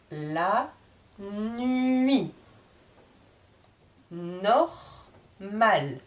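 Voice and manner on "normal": "Normal" with the R clearly rolled in the throat; stressed R. Shown as a demonstration. Teacher stresses the R for students. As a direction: lean on the R of "Normal". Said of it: "J'insiste sur le R ici".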